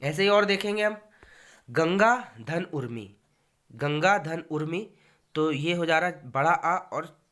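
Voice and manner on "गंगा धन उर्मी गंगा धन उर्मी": unhurried, careful गंगा धन उर्मी; slow dictation. Shown as a demonstration. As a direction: say गंगा धन उर्मी slowly, word by word. Teacher reads example slowly.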